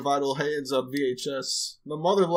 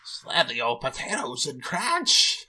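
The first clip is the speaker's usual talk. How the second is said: slow, drawn-out silly character voice; put-on hick drawl; slower than usual. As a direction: stretch it out in a goofy voice, lifting at the end. Repeats line in put-on voice.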